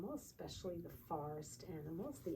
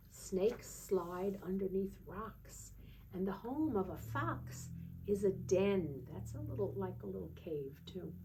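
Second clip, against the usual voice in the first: sing-song picture-book reading voice; lilting storybook read-aloud, slowing on the bear lines; reading to children; 3 dB louder, slower than usual. Acted. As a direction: read it like a bedtime book for a toddler.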